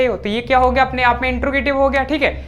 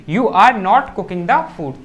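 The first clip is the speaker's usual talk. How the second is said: very slow, word by word for the class; slow dictation; 3 dB louder, much slower than usual. Shown as a demonstration. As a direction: spell it out slowly so students can write. Teacher dictating English sentence slowly. (बहुत धीरे, शब्द-दर-शब्द बोलना)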